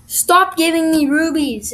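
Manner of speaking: loud, slow complaint at bad pack luck; frustrated. Real, not acted. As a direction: grumble it out, fed up. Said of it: "And I'm heated".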